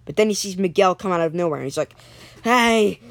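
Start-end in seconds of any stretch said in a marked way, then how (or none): 2.4-3.0 calling out. Acted. Kenny calls out to Miguel.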